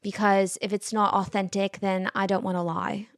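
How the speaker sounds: lightly put-on British accent; weird British accent. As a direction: imitate a candid British dater, loosely. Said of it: "This is my weird British accent".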